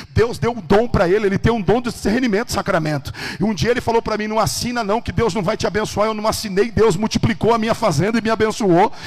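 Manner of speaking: loud, driving testimony; impassioned pulpit delivery; full-force preaching. Real, not acted. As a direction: preach the miracle with rising fervour.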